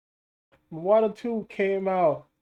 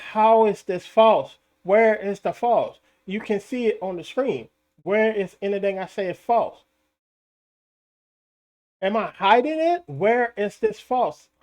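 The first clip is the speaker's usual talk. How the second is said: indignant; 3 semitones higher, 4 dB louder than usual. Retold or imitated. His own retold angry retort.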